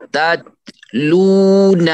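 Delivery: تتلون slow, sung out, the ت soft; soft recitation. Shown as a demonstration. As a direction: chant تتلون slowly with soft ت. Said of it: "پستی کے ساتھ".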